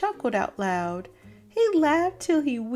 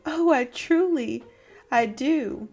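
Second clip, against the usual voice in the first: hooting uncle; 4 dB louder than usual. Acted. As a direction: overdo the praise, still chuckling. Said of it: "Fred hooted".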